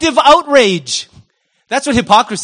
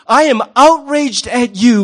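slow, drawn-out self-righteous line; mock outrage; 3 semitones higher than usual. Preacher playing a hypocrite again, in slow mock outrage. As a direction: lean into fake indignation.

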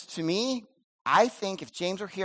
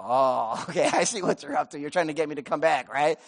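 suspicious knowing laugh; 2 semitones lower than usual. Retold or imitated. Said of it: "they're gonna go".

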